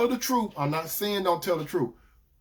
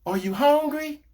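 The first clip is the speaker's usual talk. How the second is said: wife's caring question; 10 semitones higher, 3 dB louder than usual. Retold or imitated. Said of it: "she gonna say something like".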